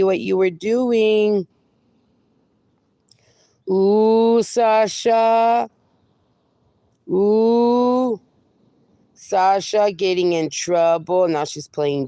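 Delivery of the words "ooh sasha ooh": drawn-out, louder ooh; teasing ooh. Real, not acted. Owner scolding the dog over the dug holes, teasing. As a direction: tease her for being caught.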